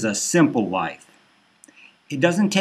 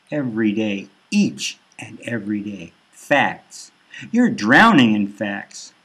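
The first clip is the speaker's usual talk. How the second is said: ominous news anchors. Acted. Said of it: "news things say".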